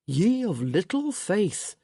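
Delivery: slow, teasing flippancy; flippant. Acted. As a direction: toss it off flippantly. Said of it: "He sounded far too flip".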